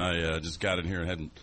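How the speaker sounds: hoarse, throat clogged; frog in throat. Real, not acted. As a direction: croak through a frog in the throat. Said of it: "got the frog in my throat".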